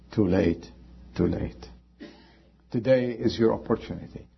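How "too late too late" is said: mocking voice. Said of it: "the mocking voice crying out".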